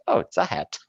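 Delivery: high, surprised guess; mock your own naive guess; guessing aloud. Teacher recalling a first guess at the hat, surprised.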